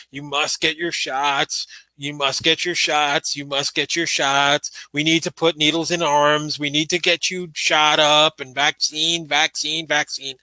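lightly voiced mocking official repeating himself; mocking Fauci. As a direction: drone it out like a preachy doctor. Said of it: "saying the same shit that he keeps on saying".

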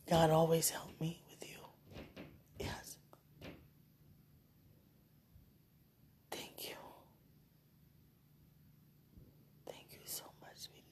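fading sleepy whisper; drifting into sleep, barely audible; nodding off. Real, not acted. Falling asleep whisper.

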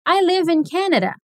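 live said slowly with a short i; I live in Canada, live rhyming with give; slow model sentence. Shown as a demonstration.

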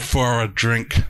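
slowly enunciated "For a drink"; deliberate, stretched-out "For a drink"; spelled-out pun. Shown as a demonstration.

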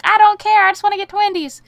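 high, loud exasperated cry; exasperated yell. Retold or imitated. Fed up with math questions, loud exasperated cry. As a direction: fling it out in frustration. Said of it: "And I'm like".

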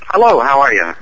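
lightly put-on Canadian accent. Shown as a demonstration. Guest greeting the host from Canada, Canadian voice. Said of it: "That's my Canadian voice".

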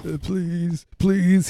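high, small plea; pleading for help. Acted. Scrawny mascot under duress at halftime, mock pleading. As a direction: beg in a high mock-desperate voice. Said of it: "comes out and pleads for help".

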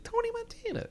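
full Tony Montana mode. Shown as a demonstration. Friend mocks the famous Scarface Tony with a laugh. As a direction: hype the name up like the movie legend. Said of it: "at this point, he's not, like".

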